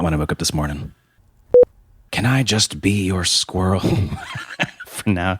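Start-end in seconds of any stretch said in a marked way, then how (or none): 2.1-5.4 breaking into laughter. Real, not acted. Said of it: "only got one take of that one".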